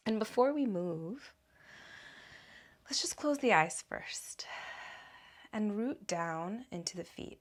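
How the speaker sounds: calm, measured guiding voice with long pauses; guided meditation. Acted. Teacher guiding listeners to root into their feet, guided meditation. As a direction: guide them gently inward, unhurried, leaving room between phrases.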